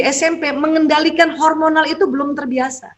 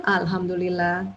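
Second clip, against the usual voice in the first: soft relieved thanks; 5 semitones lower, 7 dB quieter than usual. Shown as a demonstration. Mother's relieved reply.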